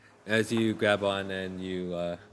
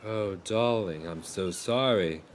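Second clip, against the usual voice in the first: sympathetic sailor; slower than usual. Acted. Sailor consoles castaway.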